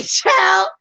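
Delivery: a hint of a stern grandma, opening with a shouted "Child"; scolding grandma. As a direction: shout "Child", then lecture him like a no-nonsense grandma.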